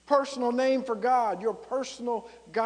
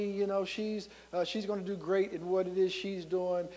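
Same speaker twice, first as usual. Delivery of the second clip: complacent excuses; 3 semitones lower, 6 dB quieter than usual. Acted. Voicing a complacent believer's excuses.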